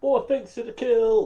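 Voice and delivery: high-pitched put-on character voice. Speaking as Nulgrin after being given the first word, high-pitched Nulgrin voice. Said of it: "does the Nulgrin have a higher pitched voice like that".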